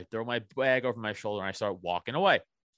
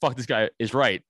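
firmer retort in usual pitch; emphatic agreement; 4 dB louder than usual. Retold or imitated. Riled man correcting his buddy, retold emphatic agreement. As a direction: throw the phrase back with more force. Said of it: "not how you're saying it".

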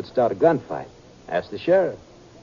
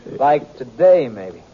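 a gunman toying with his captives; slow veiled threat; 3 dB louder, much slower than usual. Acted. Outlaw hints he will kill them.

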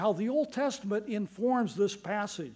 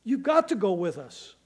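retold plea, raised at first then easing; Moses pleading; 4 semitones higher than usual. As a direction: make an earnest, mildly urgent appeal. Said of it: "Moses is pleading with God".

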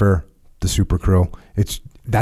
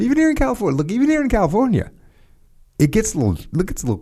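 high, squeaky mock whine about the cold; mock whiny complaint; 12 semitones higher, much faster than usual. Tells his co-host about chilly California mornings, mock whine. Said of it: "mock complaint about cold".

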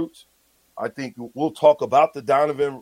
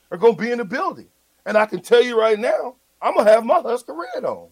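halftime pep speech; 7 semitones higher than usual. Real, not acted. Fired-up defiant rant.

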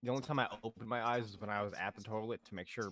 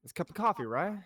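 imitating the guard; 3 semitones higher than usual. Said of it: "he'd be like".

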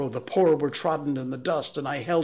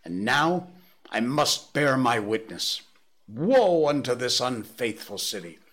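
prophetic shouting; 3 semitones higher, 7 dB louder than usual. A narrator's reading. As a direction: bellow woe at the city. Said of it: "in a tone that must have reached the pit".

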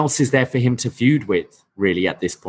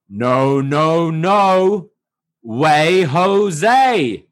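Fallah Bahh voice; 5 semitones higher, much slower than usual. Retold or imitated. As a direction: sing out the refusal playfully. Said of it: "And I said".

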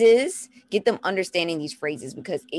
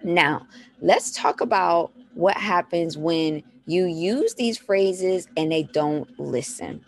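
ordinary talk, nothing marked

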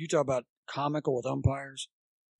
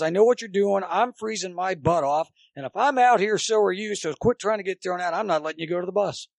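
raised, insistent retort; mock scolding; 4 semitones higher, 4 dB louder than usual. Umpire refusing to throw the coach out, mock scolding. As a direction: act out a fed-up telling-off, pitched up.

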